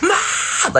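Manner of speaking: shrill high yell of Ma; mock panicked kid calling out; screaming for mom. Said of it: "I used to scream".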